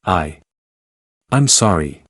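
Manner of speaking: stammering apology; stutter. A narrator's reading. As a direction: trip over the first word. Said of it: "made Xiao Yao tremble and stutter".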